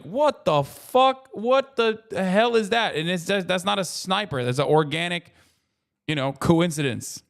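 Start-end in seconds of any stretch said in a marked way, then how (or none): 0.0-3.0 much higher, slow, drawn-out astonishment; astonished fan. Retold or imitated. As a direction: gape at something impossible. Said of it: "when someone just goes like".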